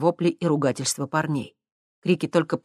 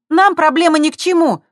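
put-on much higher and louder girl's voice; telling them off; 13 semitones higher, 10 dB louder than usual. A narrator's reading. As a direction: shove them away with your voice. Girl tells guys off. (резко, громко и высоко)

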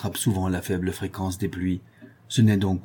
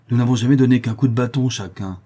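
protesting; 4 semitones higher, 6 dB louder than usual. Acted. Corentin defending himself.

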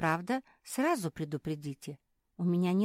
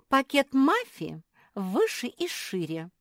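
higher, slow, hurt puppy voice; offended; 8 semitones higher, 6 dB louder than usual. A narrator's reading. Marsia complaining her sister's bag is bigger, offended. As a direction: sulk that the sister got more. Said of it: "обиделась Марсия".

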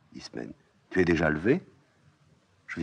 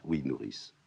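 a little weary. Acted. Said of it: "soudain un peu lasse".

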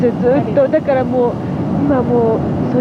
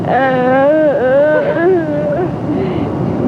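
long, drawn-out mock groan; imitated groan. Host imitating her bandmate in the night, drawn-out groan. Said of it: "ミキのうなり声でした".

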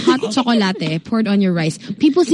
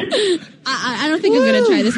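laughing through the words, pitch up; giggling while turning it down; 8 semitones higher than usual. Real, not acted. Caller's food makes host laugh.

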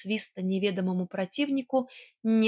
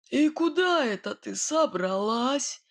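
menacing; 3 semitones higher than usual. A narrator's reading. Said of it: "Соловей недобро сощурился".

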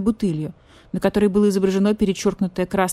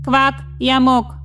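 higher, louder croaky sick message; croaking rook; 6 semitones higher, 4 dB louder than usual. Acted. Sick rook sends message to badger police, croaky. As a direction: croak the dire message urgently.

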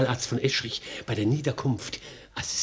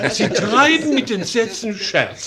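high amused laugh through words; 10 semitones higher, 5 dB louder than usual. Acted. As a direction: laugh while you say it. Amused reply to witty remark.

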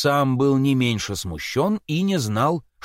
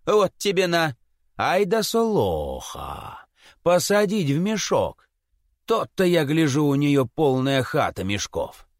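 wounded Chub; 3 semitones lower than usual. Acted. Jealous Chub learning of Solokha's other lovers, rueful. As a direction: sink into bitter realization.

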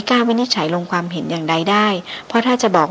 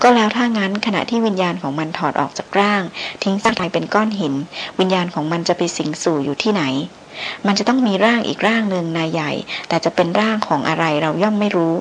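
ordinary delivery

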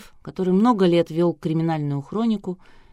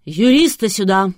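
much louder commanding shout; thunderous order; 3 semitones higher, 8 dB louder than usual. A narrator's reading. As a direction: bellow the command. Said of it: "громовым голосом приказала шеф-редактор".

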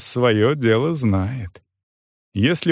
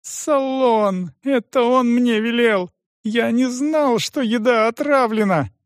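put-on high, pleading young voice; higher voice, begging not to be blamed; frightened cripple; 12 semitones higher than usual. A narrator's reading. Стефан оправдывается перед допросом, высоким испуганным голосом.

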